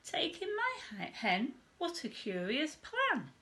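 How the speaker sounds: put-on high, surprised old lady's question; puzzled old lady. A narrator's reading. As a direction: lift it up in disbelief.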